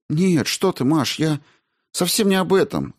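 high, alarmed denial; frightened protest. A narrator's reading. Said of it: "запротестовала Ольга так решительно и испуганно".

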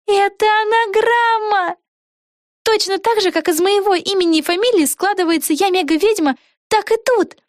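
Vega sees the anagram, thrilled; excited discovery. A narrator's reading. Открытие Веги. (высокий, восторженный возглас открытия)

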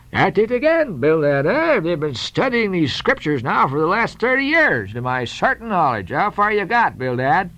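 put-on high, teasing old sea captain; Peleg. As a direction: bluster like a gruff old whaler. Peleg teasing his old shipmate.

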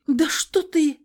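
high, loud, shocked cry; startled protest. A narrator's reading. Heroine fighting off Nikolai, shocked cry. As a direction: push him away with your voice. She tries to fight him off.

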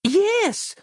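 high, delighted squeal; a little girl squealing with glee; a very high, happy yes; gleeful squeal. Acted. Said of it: "squealed Christabel, clapping her hands with glee".

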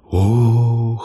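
a touch of awed surprise; gasping exclamation. Acted. Elves gasp at the gnome's story, mild awe. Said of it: "хором воскликнули остальные эльфы".

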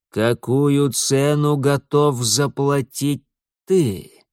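put-on slow, menacing old stranger; ominous old man. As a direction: weigh each word of the price slowly. Old man demands a price.

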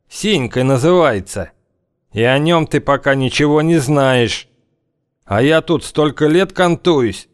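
put-on menacing old gang leader; dark lord. Gang leader warning stranger.

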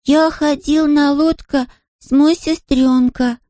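put-on high, slow little boy, Scottish accent, beaming; Scottish-accented small boy bragging; proud Scottish child. A narrator's reading. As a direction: announce it like a proud Highland toddler. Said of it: "с гордостью сообщил Харри".

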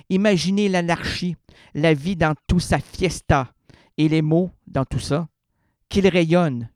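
measured recital of a free verse poem; poetry reading. Acted. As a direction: lay out each image with weight. Reads his poem.

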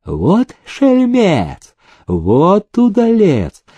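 high, very slow, delighted cry; overjoyed. A narrator's reading. Prokofy Akinfeevich delights in the winner, high and slow. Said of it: "обрадовался Прокофий Акинфеевич".

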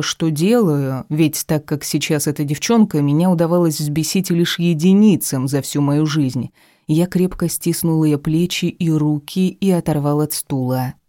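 ordinary delivery, nothing marked

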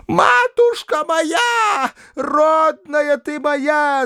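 very high, very slow shriek. A narrator's reading. Old woman shrieking at the governess's feet. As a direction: shriek each word, drawn out. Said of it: "завизжала она".

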